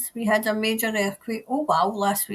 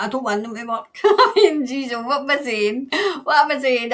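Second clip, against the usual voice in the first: laughing at herself; 2 semitones higher, 4 dB louder than usual. Real, not acted.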